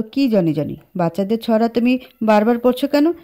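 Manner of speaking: mock-annoyed scolding; scolding again. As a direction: tell her off, exasperated. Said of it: "Ahan পুনরায় ধমক দিয়ে বলল".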